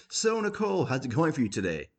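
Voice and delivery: high chirpy "So, Nicole", lightly chirpy after. Retold or imitated. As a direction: play a grinning doctor's sing-song hello. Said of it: "he asks in a chirpy tone".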